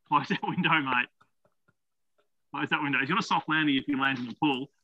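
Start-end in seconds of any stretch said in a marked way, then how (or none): 0.1-3.0 firm call. Real, not acted. Telling child off.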